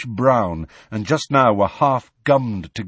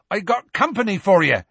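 high, raised calling voice; Hagrid shouting; 9 semitones higher, 4 dB louder than usual. A narrator's reading. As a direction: announce it loudly to someone far above. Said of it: "Hagrid shouted".

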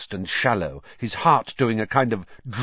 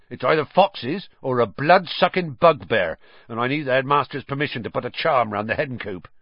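big, gruff friendly giant; Hagrid voice; 3 semitones higher than usual. Acted. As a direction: speak as the kindly giant. Hagrid's voice in the story.

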